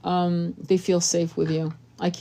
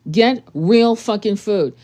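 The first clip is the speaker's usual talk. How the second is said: slow emphatic push; 5 dB louder, slower than usual. Real, not acted. Emphatic advice rant.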